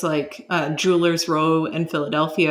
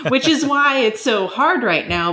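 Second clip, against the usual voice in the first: words said through a laugh, a bit higher and louder; amused, half-laughing explanation; laughing while talking; 7 semitones higher, 4 dB louder than usual. Real, not acted. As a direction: let the laugh carry into the sentence.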